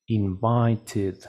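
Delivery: "Invited" with a clear final "tid", falling; ED as extra syllable. Shown as a demonstration. Teacher echoing the recording, clear ED syllable. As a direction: say "Invited" in three distinct syllables. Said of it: "qué es lo que dijo".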